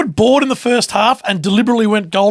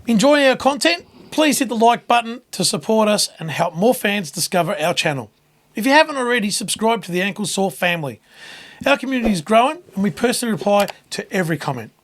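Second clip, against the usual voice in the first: ad read. Acted. Reads channel promo.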